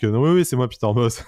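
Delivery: a hint of a Marseille accent; lightly put-on Marseille accent, jokey; Peter Bosz with a Marseille accent. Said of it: "Avec son accent marseillais".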